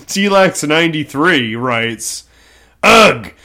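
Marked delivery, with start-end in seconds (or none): 2.8-3.3 whiny, higher jealous fan; jealous fangirl voice. Acted. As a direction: pout it out like a jealous superfan. Voicing a jealous fan comment.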